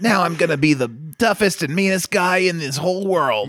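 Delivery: laughing mock kid villain boast; scratchy kid villain. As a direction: play a scratchy-voiced bratty villain. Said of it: "He's very, like, scratchy voiced".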